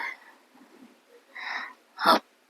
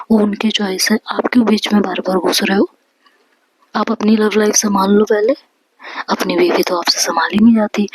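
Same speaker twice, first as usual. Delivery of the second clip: mildly raised, acted scolding; a touch of angry reproach; heated scolding. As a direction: press each challenge in a story quarrel. Narrator acts out a heated quarrel.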